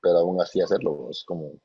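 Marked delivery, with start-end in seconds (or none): 1.1-1.5 breaking up, signal dropping; choppy call audio; glitching audio. Real, not acted. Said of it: "se está cortando la señal".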